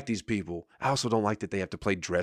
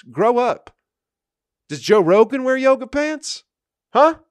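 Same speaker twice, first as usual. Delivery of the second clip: builds from raised voice to a high, loud shout; getting more worked up with every line about gym shorts; rising rant; 8 semitones higher, 6 dB louder than usual. Real, not acted. Ranting about grown men in yoga pants, building to a shout.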